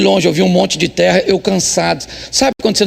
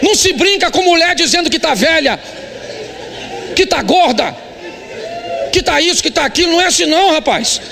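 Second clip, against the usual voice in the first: high, pressing sermon delivery; full-force preaching; 8 semitones higher than usual. Acted. Pastor charges the husbands to respect their wives. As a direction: preach it hard to the congregation.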